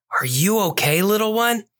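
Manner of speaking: gentle question, lilting up high; a touch of tender cat voice, rising at the end; soft purring concern. A narrator's reading. Cat officer to a lost child, soft purring concern. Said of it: "his voice as soft as a purr".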